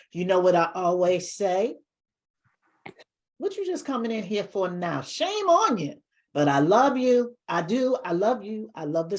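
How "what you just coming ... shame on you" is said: playful telling-off, pitch leaping up; mock scolding. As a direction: pretend to shame the latecomers. Host teasing late viewers.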